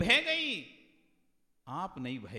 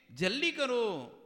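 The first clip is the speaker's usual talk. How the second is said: high, loud call to hurry; pressing urgency; 10 semitones higher, 7 dB louder, slower than usual. Acted. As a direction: shout it like someone held up in traffic. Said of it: "बार बार आपको pressure पड़ रहा है". (ऊँची आवाज़ में ज़ोर से जल्दी मचाते हुए)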